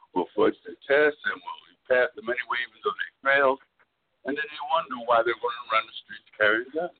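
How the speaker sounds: breaking up on a bad phone line; crackly cordless phone. Real, not acted. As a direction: caller fading in and out. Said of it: "You're fading in and out".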